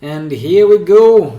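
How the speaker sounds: loud, energetic kickoff; excited. Real, not acted. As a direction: launch into it with a burst of energy. Opening the video with energy.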